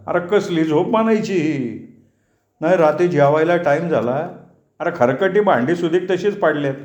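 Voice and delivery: a hint of a cheerful villager teasing his old friend; chatty neighbour ribbing Chacha, only lightly put on; lightly voiced village friend. Yasin wakes Chacha and teases him, lightly voiced banter.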